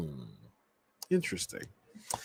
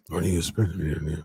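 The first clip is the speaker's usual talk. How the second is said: put-on old Vince voice; 7 semitones lower than usual. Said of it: "Vince's voice".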